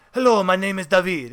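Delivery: mock Spanish accent, David as dah-VEED; hammy imitation of a Spaniard's accent; imitated Spanish accent. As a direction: introduce yourself in a put-on Spanish accent. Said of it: "this is the way he talked".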